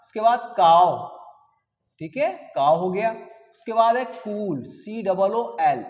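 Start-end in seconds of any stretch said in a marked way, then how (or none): 4.6-5.9 slow spelling. Shown as a demonstration. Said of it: "इसको कूल बोलते हैं".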